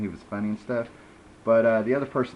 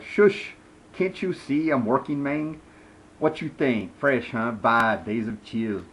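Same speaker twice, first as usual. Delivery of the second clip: put-on Vibe, stereotypical Latino accent; 3 semitones higher, 5 dB louder, slower than usual. Graffiti writer shushing someone while working, hammed-up Latino accent. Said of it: "he's talking in that stereotypical Latina accent".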